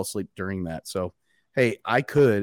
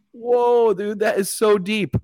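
high, amazed whoa; awed whoa; 12 semitones higher, 7 dB louder, slower than usual. Retold or imitated. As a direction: gasp it out in wonder. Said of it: "I'm like".

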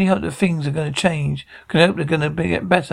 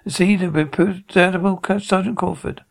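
lightly pompous, slightly raised pitch; 3 semitones higher than usual. Acted. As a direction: put on a touch of self-importance. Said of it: "Pompous voice".

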